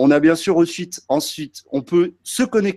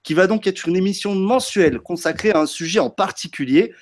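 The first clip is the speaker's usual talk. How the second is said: upbeat presenter voice, pitched up; show host intro; 3 semitones higher than usual. Acted. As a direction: open the episode like a TV host.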